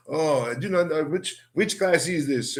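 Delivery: lightly voiced, puzzled French teacher; a hint of a confused foreign teacher asking which class this is; gullible French teacher. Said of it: "she would come in and say".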